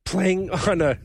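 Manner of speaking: real crack of a sick voice; voice giving out. Real, not acted. Sick podcaster struggling through a joke, voice giving out. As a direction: voice slipping upward from being sick. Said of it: "sorry, I'm losing my voice".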